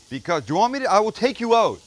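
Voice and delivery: high, loud threat at a buzzing bee; mock threat. Real, not acted. Chef yelling a mock threat at a pesky bee. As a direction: warn the bee off, half joking.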